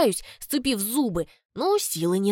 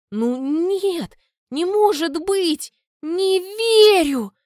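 disbelief; 9 semitones higher, 6 dB louder, much slower than usual. A narrator's reading. Daughter in disbelief.

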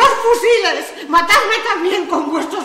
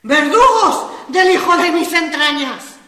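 tragic heroine sorrow; 10 semitones higher, 4 dB louder, slower than usual. Acted. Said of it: "voz con esa cólera trágica".

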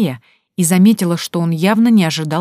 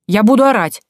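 higher and louder defiant threat; girl shouting a threat at captor; 5 semitones higher, 5 dB louder than usual. Acted. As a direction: shout the warning at him. Tanka threatens to scream.

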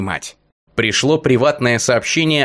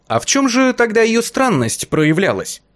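curious nymph voice; 10 semitones higher than usual. A narrator's reading. Forest nymph asks, curious.

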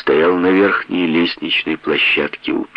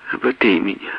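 pleading; 2 semitones higher than usual. Acted. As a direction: beg weakly for help. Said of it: "просила она".

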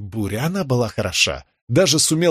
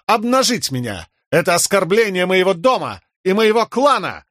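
hammed-up Horneater accent; 7 semitones higher than usual. A narrator's reading. Fake Horneater threatens exposure.

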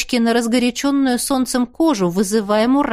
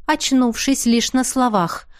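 ordinary delivery, nothing marked

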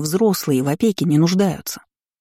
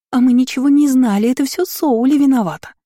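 high, louder whiny mimicry; angry mocking imitation; 7 semitones higher, 4 dB louder than usual. A narrator's reading. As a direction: throw their excuse back in a mocking high voice. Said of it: "зло передразнивала я".

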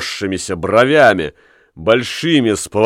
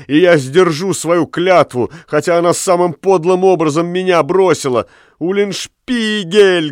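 terrified babbling; 6 semitones higher than usual. Acted. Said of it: "похолодев от ужаса, лепетал".

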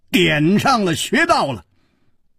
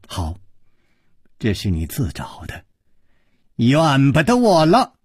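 put-on sneering old woman; 3 semitones lower than usual. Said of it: "花金公说".

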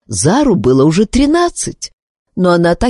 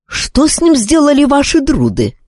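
high, angry demand; anger; 11 semitones higher than usual. Acted. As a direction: demand an answer angrily, pitched high. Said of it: "в гневе обернулся командор Энканцо". (отец в гневе требует ответа у дрöдов)

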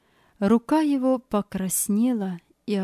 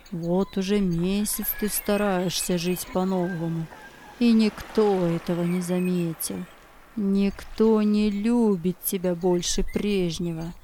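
evil spirit whispering; 3 semitones lower than usual. Acted. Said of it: "Злой дух стал нашептывать ему".

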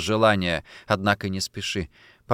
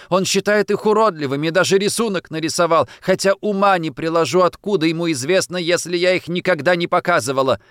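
higher, louder tearful pleading; tearful complaining; 8 semitones higher, 5 dB louder than usual. Acted. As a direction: pour out the grievance near tears. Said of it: "С громким всхлипом". (сквозь слёзы, жалобно)

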